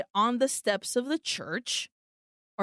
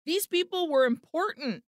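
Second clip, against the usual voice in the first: rushed, higher, panicky backpedaling; frantic, climbing pitch as the excuses pile up; nervous scrambling; 5 semitones higher, faster than usual. Retold or imitated. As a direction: talk fast and high like you're scrambling to cover yourself. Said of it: "So Tony starts a scrambling".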